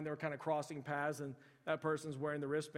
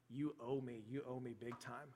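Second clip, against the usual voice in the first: soft, slightly lowered blackmail; quiet mock threat; 3 semitones lower, 8 dB quieter than usual. Sister blackmailing her brother over the duck, quiet mock threat. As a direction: lean on the debt in a softened voice.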